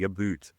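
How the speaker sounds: "a boot" with an oo vowel, as Americans mimic Canadians; mimicked Canadian "about". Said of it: "Americans going with the".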